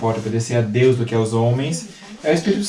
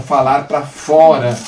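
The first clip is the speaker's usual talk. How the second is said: projected voice; 6 dB louder, slower than usual. Shown as a demonstration. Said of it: "Mas, então".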